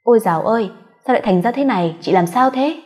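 put-on sister-in-law shocked at the drunk woman; alarmed concern. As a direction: rush over in alarm. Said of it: "Ý chau mày nó hỏi".

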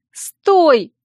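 high, loud cry to halt; urgent shout. A narrator's reading. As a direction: shout to stop someone in their tracks. Heroine grabs him to stop him.

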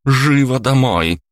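high, loud, slow order; commanding shout. Acted. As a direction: bark the order at her daughter. Mother orders daughter home.

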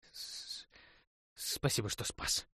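stammering through chattering teeth; shivering, teeth clacking, half-voiced. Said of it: "клацая зубами".

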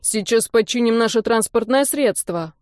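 put-on drunk, slurring the words; tongue tangled from drink; slurred drunk speech. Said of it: "заплетающимся языком добавил он".

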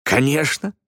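hearty exclamation. Acted. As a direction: announce it with lively pride. Иван радостно представляет племянника.

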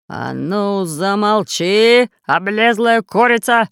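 loud, slow pirate threat; threatening. Acted. Pirate threatening the parrot, loud. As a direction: bark it at the bird. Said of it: "пригрозил пират Бульбуль".

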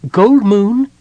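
high, loud kender voice calling. A narrator's reading. Tass calls through the closed door to his friend, calling out. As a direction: call out loudly in a high-pitched little voice. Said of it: "he called out".

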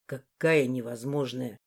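low, slow exasperated man; low man's hiss. Acted. Morris hisses at her, low and exasperated. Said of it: "зашипел".

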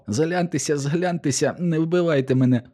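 high, panicky begging; pleading for mercy. Acted. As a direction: beg for your life, hands up. Павло благає про пощаду. (високе, перелякане благання не вбивати)

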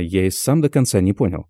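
ordinary delivery

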